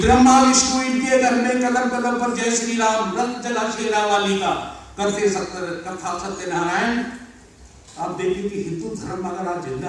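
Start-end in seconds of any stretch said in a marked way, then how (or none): 0.0-7.0 rhythmic poem, opening high and loud, easing down; stage poetry recital; declaimed verse. Acted. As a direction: launch the stanza strongly, then settle.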